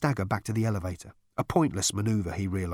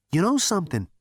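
Zaphod voice; 8 semitones higher, 3 dB louder, faster than usual. A narrator's reading.

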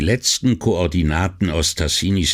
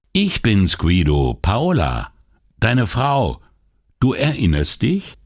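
higher, wry wife's voice; teasing wife; 5 semitones higher than usual. Acted. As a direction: needle him gently as his wife. (Ehefrau neckt ihren Mann, höhere Stimme)

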